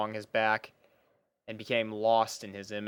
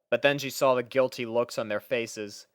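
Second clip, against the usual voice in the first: ordinary delivery, nothing marked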